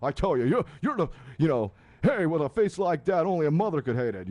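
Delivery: lightly voiced Rodney Dangerfield shtick; a hint of a nightclub insult comic, punchy. Mocking a radio host in a light Rodney Dangerfield voice. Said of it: "be like, uh, like Rodney Dangerfield".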